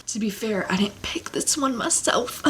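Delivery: whispered aside. Real, not acted. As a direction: lean in and whisper the admission. Confessing aside about review copy.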